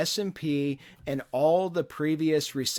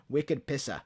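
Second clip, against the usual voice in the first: short Boston accent demo, dropped R; 4 dB quieter than usual. Shown as a demonstration. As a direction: try a light Boston accent. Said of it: "have heard the Boston accent".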